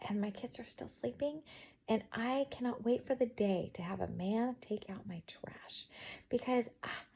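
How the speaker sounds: hushed. Real, not acted. Kids are still sleeping.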